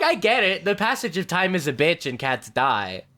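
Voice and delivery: exasperated and giggling; laughing exasperation. Retold or imitated. Exasperated about cats dying.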